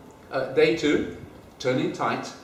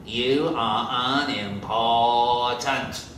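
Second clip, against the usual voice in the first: stern principal's drill; 3 dB louder, much slower than usual. Acted.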